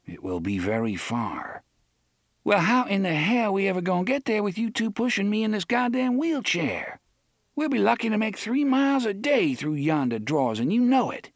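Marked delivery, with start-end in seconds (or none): 2.4-10.6 high, brash and scornful; fiery Detta Walker. Acted. Susanna scoffing at Roland's plan, high and brash. 10.6-11.3 and you know it flung out high and loud; brash, high jab. Acted. Susanna jabbing at Roland, high and loud.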